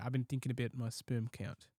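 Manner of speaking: quiet mock Kiwi accent. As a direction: imitate a mate's Kiwi accent. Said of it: "That's my impression".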